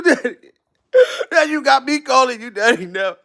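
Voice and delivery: hammed-up crying through laughter; fake-blubber while cracking up; laughing mock sob. Mock-crying over the dad.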